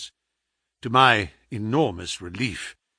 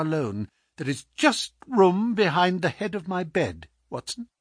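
lightly voiced lucid invalid; sick but crisp detective, insistent; 3 semitones higher than usual. Sick detective proposes a hiding place, lightly insistent. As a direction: reason with him crisply, with little force.

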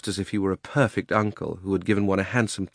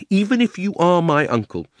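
put-on mildly heated boy, raised voice; angry; 6 semitones higher, 3 dB louder than usual. A narrator's reading. Diggory calls his uncle a coward, angry. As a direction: accuse him with a touch of indignation. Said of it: "flaming with anger now".

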